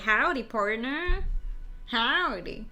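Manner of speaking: lightly put-on cowboy drawl, slow; hint of a badly faked cowboy accent. Streamer mimicking how a cowboy would talk, amateur cowboy accent. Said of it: "talking like a cowboy".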